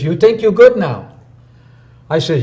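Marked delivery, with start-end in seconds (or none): 0.0-1.1 higher, louder, challenging master's question; mock stern master. Master confronting his proud student, higher and louder. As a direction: mimic the Korean master's sharp challenge.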